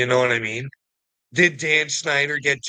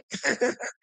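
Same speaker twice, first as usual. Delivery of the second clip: 1 mocking laugh; 11 semitones higher, 4 dB quieter than usual. Real, not acted. Laugh after taunting.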